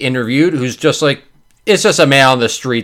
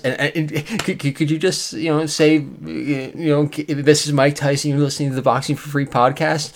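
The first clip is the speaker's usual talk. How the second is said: timid fan; 4 dB quieter than usual. Acted. Acted timid fan begging a celebrity.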